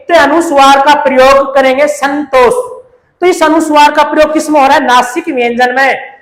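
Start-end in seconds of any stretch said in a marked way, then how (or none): 1.9-2.5 "संतोष" with the nasal n clearly sounded; pronunciation demo. Shown as a demonstration. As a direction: sound out "संतोष", letting the n come through the nose. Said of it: "जैसे संतोष का उच्चारण करेंगे". ("संतोष" का न नाक से साफ़ बोलते हुए)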